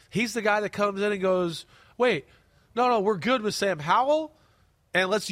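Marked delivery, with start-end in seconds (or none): none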